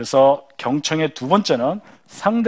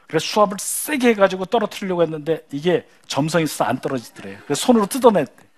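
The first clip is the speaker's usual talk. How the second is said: ordinary delivery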